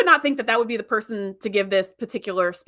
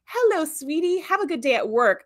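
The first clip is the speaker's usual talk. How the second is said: mock sugary greeting, pitched up at first; creepy perfect family; 6 semitones higher than usual. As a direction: lightly imitate an eerily sweet housewife. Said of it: "it's creepy".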